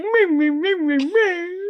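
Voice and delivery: high, mocking crybaby whine; squeaky mock-crying taunt. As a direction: mimic a crybaby on repeated syllables. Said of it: "James makes that crybaby face".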